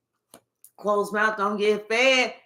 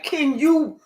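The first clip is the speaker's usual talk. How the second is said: loud, higher-pitched mock proposal; imitated urgent proposal; 4 semitones higher, 7 dB louder than usual. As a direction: blurt out the proposal at full voice. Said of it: "They're ready to be like".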